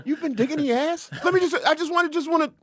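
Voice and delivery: baffled, asking again and again; confused. Pretend.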